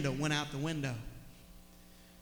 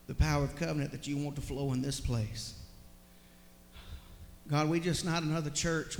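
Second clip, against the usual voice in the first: heartfelt prayer. Real, not acted. Pastor leading his congregation in prayer, earnest and building. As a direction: pray it out fervently, gathering force toward the end.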